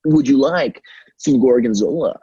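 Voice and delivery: lightly voiced formal announcer; a worker staying in his announcer character, understated. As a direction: keep the recorded-PA politeness. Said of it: "I would talk like that".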